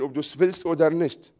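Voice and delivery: ordinary talk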